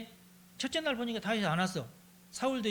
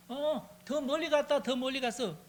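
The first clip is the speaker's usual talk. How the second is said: higher, slow calling out over the distance; signal shout; 7 semitones higher than usual. Acted. Jonathan signalling David with shouted words, calling out. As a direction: call it out so the hidden friend hears.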